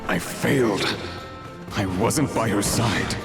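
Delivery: a voice weighed down by painful memories; pained voice. Acted. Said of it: "He sounds like he's in pain".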